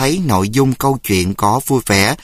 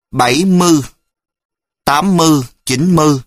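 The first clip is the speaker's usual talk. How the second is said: Phú Yên accent, higher and louder, ươi turned into ư; 4 semitones higher, 3 dB louder, faster than usual. Shown as a demonstration. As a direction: mimic a Phú Yên official counting. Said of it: "cũng có ươi và ư".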